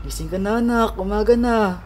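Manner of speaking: tender morning wake-up call; gentle wake-up. Acted. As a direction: gently rouse a sleeping child. Father wakes sleeping child gently.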